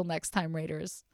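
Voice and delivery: soft breathy whisper. Real, not acted. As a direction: whisper the name goodbye. Whispered sign-off.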